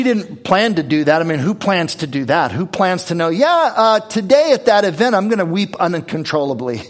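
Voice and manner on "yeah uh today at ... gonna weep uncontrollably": higher, louder, easing back at the end; mock announcement. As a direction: play someone casually announcing an absurd plan. Mock planning of an absurd event.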